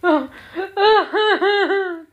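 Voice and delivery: a high, loud hammed-up wail of tears; mock sobbing wail. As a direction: wail like you're bawling at your desk, all for show. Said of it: "me be sitting there busy going".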